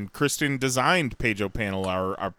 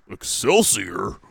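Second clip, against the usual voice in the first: lower, slow, puzzled echo; Hulk Hogan; 4 semitones lower, slower than usual. Retold or imitated. Wrestler echoing the legend's catchphrase, puzzled impersonation. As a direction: question the catchphrase like a confused wrestler. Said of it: "Hulk Hogan goes".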